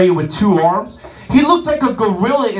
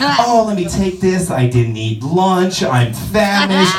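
apologetic lady; 2 semitones lower, slower than usual. Retold or imitated. Guest apologizing to waiter, lightly voiced sheepish lady. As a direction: mumble apologies while grabbing food. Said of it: "the apologetic sorry lady".

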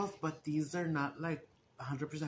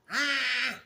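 sudden high loud cry of pain; sharp pained yelp; 9 semitones higher, 7 dB louder than usual. Real, not acted. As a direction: yelp as the hair pulls. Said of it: "estaba bien atorado en triste pelo".

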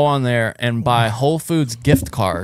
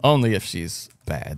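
put-on Colombian accent; 4 semitones lower, 4 dB quieter, slower than usual. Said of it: "Colombian accent".

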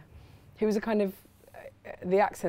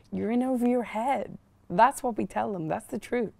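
put-on American accent; 4 semitones higher, 5 dB louder than usual. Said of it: "you did an American accent".

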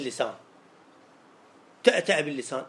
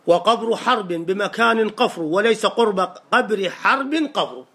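tongue-twister recital; slower than usual. Shown as a demonstration. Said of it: "إذا واحد يقوله ثلاث مرات متتالية".

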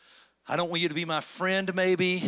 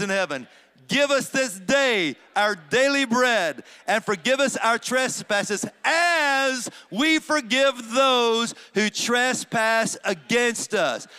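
slow, louder, higher prayer recitation; said slowly; 4 semitones higher, 5 dB louder than usual. Shown as a demonstration. Preacher leading the congregation in the prayer, slow and deliberate. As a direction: lay out each phrase of the prayer deliberately. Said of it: "Let me say it slow".

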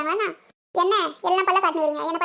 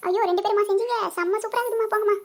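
higher, gushing praise; delighted praise; 4 semitones higher than usual. Acted. Mother praising her daughters' dish, higher and gushing. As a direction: gush over the food.

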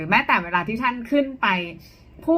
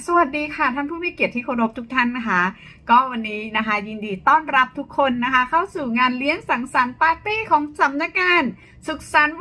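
cheerful party MC greeting pitched higher; higher second tone; 3 semitones higher than usual. Shown as a demonstration. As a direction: greet the guests like a bright emcee, voice lifted. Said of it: "เราก็จะใช้โทนเสียงสอง ยกตัวอย่างเช่น". (เสียงพิธีกรงานรื่นเริง โทนสูงขึ้น)

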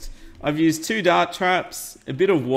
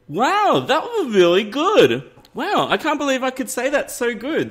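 mock excited; 9 semitones higher, 3 dB louder than usual. Mock praise of garbled attempt.

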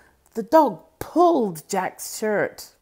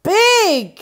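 high, louder cry of wonder; farmer amazed; 11 semitones higher, 5 dB louder than usual. Acted. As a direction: marvel as the turnip rises. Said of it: "said the farmer".

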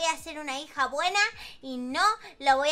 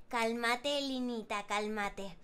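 lower, softer self-soothing; calming herself; 8 semitones lower, 8 dB quieter, much slower than usual. Acted. Girl Linita calming herself, low and soft. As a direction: talk yourself down. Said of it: "Vamos a calmate".

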